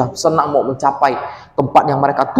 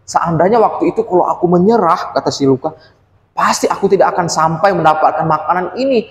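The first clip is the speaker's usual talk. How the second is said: lightly voiced grateful child; 2 semitones higher than usual. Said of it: "Luka berpikir begini".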